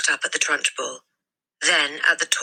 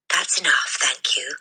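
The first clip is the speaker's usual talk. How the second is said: murmured. A narrator's reading. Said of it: "the boy murmured".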